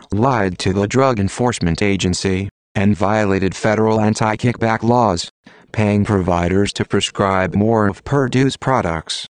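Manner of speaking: robotic text-to-speech voice. Real, not acted. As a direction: read it like a computer voice. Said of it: "using a computer-generated voice".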